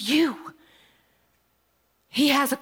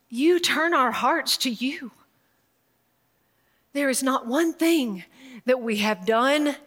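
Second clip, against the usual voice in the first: fervent prayer. Acted. Preacher praying over a sister who suffered, fervent prayer. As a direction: pray over her from the heart.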